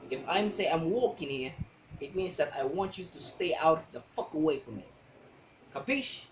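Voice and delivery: lightly voiced New York tough guy; stereotyped Italian-American New Yorker; New Yorker accent. Shown as a demonstration.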